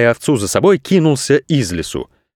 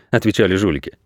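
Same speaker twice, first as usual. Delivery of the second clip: usual speaking voice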